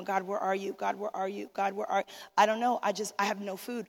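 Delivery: a hushed, despairing mock cry to God; quiet tearful plea. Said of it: "I'm sitting under the tree and I'm crying".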